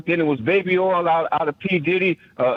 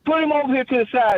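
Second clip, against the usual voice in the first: quoting Rev; 4 semitones higher than usual. Retold or imitated. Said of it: "Rev was the one who said".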